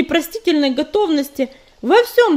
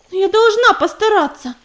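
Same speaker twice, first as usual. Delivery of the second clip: pleading groan; 6 semitones higher, 6 dB louder than usual. Acted. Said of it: "простонала Белка".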